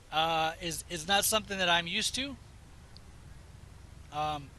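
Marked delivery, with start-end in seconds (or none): 4.1-4.5 talking through a burp. Real, not acted. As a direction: say it mid-burp. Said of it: "excuse me, I'm burping".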